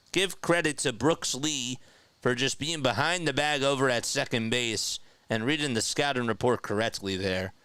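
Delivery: brisk baseball play-by-play call. Acted. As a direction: call the game live.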